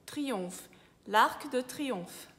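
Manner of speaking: "triomphe" ending in an F sound; slow, careful French "L'Arc de Triomphe", PH as F; French pronunciation. Shown as a demonstration. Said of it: "em francês fica som de F". ("triomphe" à francesa, PH com som de F)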